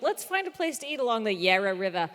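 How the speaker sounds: put-on lightly Australian-accented quote; slip into Australian accent. Retelling a dinner suggestion, slipping into an Australian accent. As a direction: let a native Australian-style accent slip out. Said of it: "only ever slips back into the accent".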